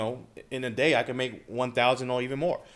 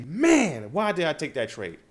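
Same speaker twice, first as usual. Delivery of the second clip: mock frustrated outburst. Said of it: "If I get mad real quick and I say".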